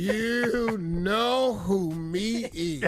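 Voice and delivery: put-on very slow slurred drunk caller; drunk dialing. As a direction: stretch it out, drunk on the phone. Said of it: "it sounds like something like this".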